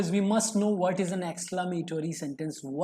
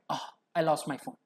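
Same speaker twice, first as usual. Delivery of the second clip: sadness; 4 semitones lower, 4 dB quieter than usual. Shown as a demonstration. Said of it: "a feeling or emotion of sadness".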